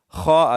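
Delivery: خا as a throaty, full "kho"; kha from the throat. Shown as a demonstration. Quran teacher correcting a common mistake, throaty kha. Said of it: "اس کو ہم حلق سے ادا کریں گے".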